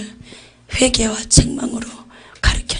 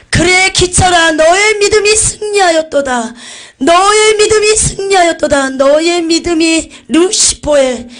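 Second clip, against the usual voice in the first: high, loud and slow, a booming joyful proclamation; joyful voice of Jesus; 7 semitones higher, 7 dB louder than usual. Retold or imitated. Jesus praising the martyred pastor from his throne, loud and joyful. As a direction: proclaim it slowly from the throne, overjoyed. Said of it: "너무나 기쁜 음성으로".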